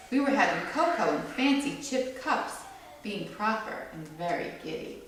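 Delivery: gentle storybook read-aloud; read-aloud to a small audience; reading to children. A narrator's reading. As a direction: read it like a picture book for kids. Reads picture book to children.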